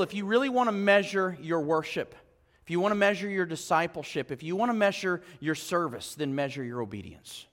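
low, soft and building to the point; hushed challenge to the congregation; quiet emphasis. Acted. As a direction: drop down and lean in. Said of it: "drops voice for key point".

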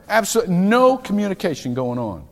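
leaning hard on "no" in "Absolutely no communication going on". Shown as a demonstration. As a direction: punch "no" and push the line out. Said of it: "same words said twice".

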